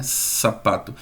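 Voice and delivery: low soft Sapato with airy s; voiceless s demo. Shown as a demonstration. Teacher shows voiceless sounds to class. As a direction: hiss the s in Sapato. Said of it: "Se você fizer sapato".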